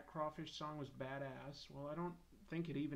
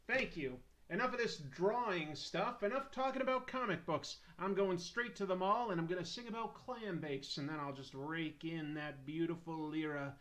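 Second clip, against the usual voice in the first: mock triumph; 2 semitones higher, 3 dB louder than usual. Mock plan to get rich singing.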